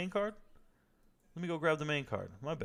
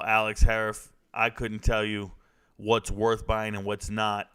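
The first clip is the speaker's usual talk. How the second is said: normal talking voice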